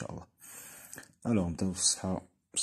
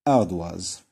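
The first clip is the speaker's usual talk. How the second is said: Ardoise called out loud, oi as wa; emphatic model word; 9 dB louder than usual. Shown as a demonstration. Teacher to pupils, loud model of the word. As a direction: announce Ardoise loudly to the class. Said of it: "هذيك وا".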